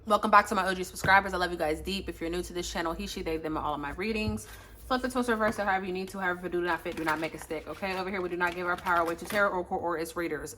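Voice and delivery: quick, softly recited channel intro; rattled-off spiel. Real, not acted. Reader welcoming subscribers back to the channel, rattled-off spiel. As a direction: rattle through the routine disclaimer. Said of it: "we're done with the spiel".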